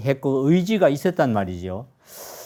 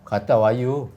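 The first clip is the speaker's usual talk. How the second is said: Chungcheong drawl. Retold or imitated. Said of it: "충청도 어른들은 어떻게 했겠어요?".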